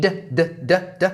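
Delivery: "d, d, d" tapped out alone; isolated d sound. Shown as a demonstration. Teacher isolates the "d" that links "need a". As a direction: repeat the "d" of "need" crisply. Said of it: "Okay, need".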